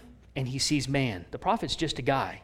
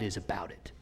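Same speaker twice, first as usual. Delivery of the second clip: whisper; 7 semitones lower, 10 dB quieter than usual. Real, not acted. Preacher whispering to the congregation. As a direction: drop to a whisper.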